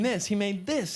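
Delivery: normal talking voice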